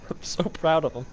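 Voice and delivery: soft laugh, mock proud; amused mock pride. Real, not acted. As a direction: laugh through the praise.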